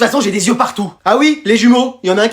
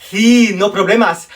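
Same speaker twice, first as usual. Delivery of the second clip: Spanish teacher imitation; slower than usual. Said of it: "Ta prof d'espagnol?".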